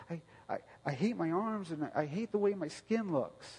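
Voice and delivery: a hint of a hurting child saying she hates herself; daughter's voice.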